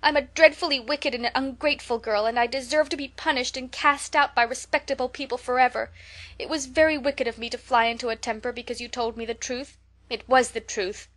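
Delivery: high, loud, tearful pleading; beseeching apology. Acted. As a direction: beg forgiveness with everything you have. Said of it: "with a quiver in her voice".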